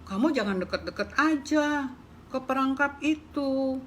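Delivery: a hint of a kindly horse; lightly voiced horse. Horse telling the mouse it cannot help, lightly voiced. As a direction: answer like a tied-up horse.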